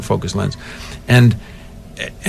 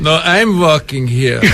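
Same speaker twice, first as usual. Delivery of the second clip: slow, raised-pitch movie-line delivery; famous film line; 4 semitones higher, slower than usual. Acted. Actor corrects host with his famous line, film-character delivery. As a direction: draw the line out, higher. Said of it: "that one line".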